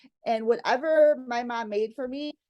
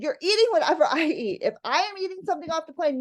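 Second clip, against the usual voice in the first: firm mom laying down the law; 6 semitones higher, faster than usual. Retold or imitated. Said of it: "saw that I was very upset".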